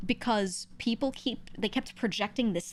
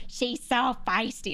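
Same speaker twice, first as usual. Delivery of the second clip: slow, slightly raised mock admirer; mocking commenters; 4 semitones higher, slower than usual. Imitating people who label the streamer feisty, mocking. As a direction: drag it out like a smitten onlooker, lightly mocking. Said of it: "And they're like".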